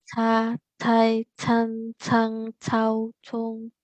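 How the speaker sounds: "Ca, cai, can, cang, cau" with a puff of air on c; aspirated c syllables. Shown as a demonstration. Teacher demos Mandarin c with aspiration. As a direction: breathe out on "cong". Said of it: "sekarang huruf C".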